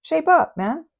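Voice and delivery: mock telling off. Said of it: "as if to say".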